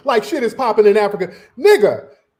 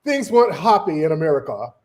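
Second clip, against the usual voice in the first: lower, mocking British accent; bad British accent; 5 semitones lower than usual. Mimicking the British critic about America, mock British accent. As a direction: put on a badly faked British accent. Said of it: "That's a shit British accent".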